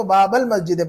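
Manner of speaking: बाबल मस्जिद linked as one phrase; short "bal" running into masjid in बाबल मस्जिद; joined reading. Shown as a demonstration. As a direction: join बाबल मस्जिद without a long aa. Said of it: "join करके पढ़ेंगे".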